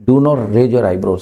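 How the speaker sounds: each word spaced out slowly; slow model sentence. Shown as a demonstration. Teacher to students, modelling the phrase slowly. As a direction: say it slowly so students can repeat. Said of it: "मतलब ठंडा रहे".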